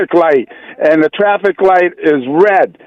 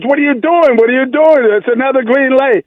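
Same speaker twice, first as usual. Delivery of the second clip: mock-panicky passenger; 5 semitones higher than usual. Passenger panics at the last light.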